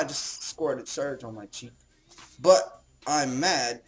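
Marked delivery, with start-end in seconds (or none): 2.4-3.8 hammed-up fuming, rising to a loud high peak; playing at being mad, louder on each line; mock angry. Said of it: "I'm getting angry now".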